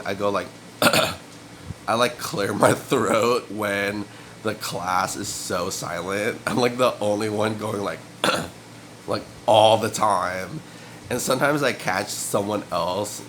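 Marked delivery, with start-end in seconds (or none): 0.1-10.6 throat clearing demo. Shown as a demonstration. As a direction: clear the throat mid-sentence, rough and unvoiced. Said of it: "I do this thing".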